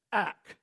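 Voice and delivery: short clipped "Ak" with a hard k; Hebrew word ak. Shown as a demonstration. Pastor teaching the congregation Hebrew, crisp "Ak". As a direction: say "Ak" crisply as one syllable. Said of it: "Can you just say".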